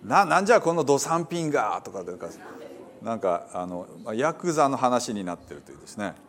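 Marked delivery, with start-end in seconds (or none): 0.0-1.8 mock yakuza snarl in Hiroshima dialect; hint of a yakuza in Hiroshima dialect. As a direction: play a gangster barking an insult, half in fun. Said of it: "ヤクザになってるんですね".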